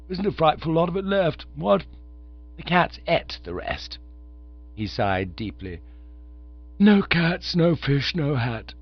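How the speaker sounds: a chirpy undergraduate rattling on; young Oxford chap. Acted. Visitor asks to borrow a tenner.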